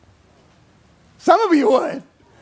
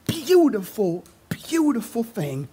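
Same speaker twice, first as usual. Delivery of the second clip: whisper; 2 semitones higher, slower than usual. Real, not acted. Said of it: "whispered emphasis".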